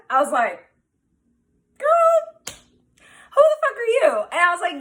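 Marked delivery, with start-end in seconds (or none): 1.8-4.1 much higher, louder, slow outraged shout; woman yelling at a stranger through the fence, outraged; incredulous yell. Retold or imitated. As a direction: draw it out, furious and baffled.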